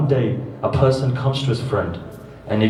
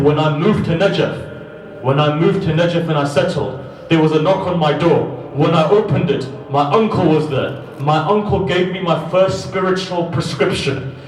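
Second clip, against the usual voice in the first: high, loud, slowed preacher voice; preacher at full force recounting Qadi's advice; impassioned preaching; 9 semitones higher, 4 dB louder than usual. Acted. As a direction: preach it with fervour, pressing each line.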